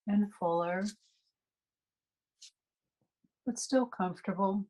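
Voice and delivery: calm meditation guide with long, unhurried pauses; guided meditation. Acted. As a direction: ease listeners into relaxation phrase by phrase, leaving space to breathe.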